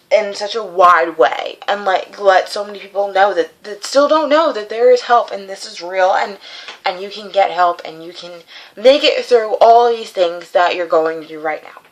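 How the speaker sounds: quacky duck voice. Real, not acted. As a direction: speak with a duck voice. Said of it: "sorry for my s-, like, duck voice".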